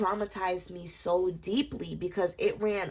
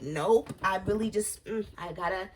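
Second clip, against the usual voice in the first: imitating a rapper; 4 semitones higher than usual. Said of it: "he's still, like".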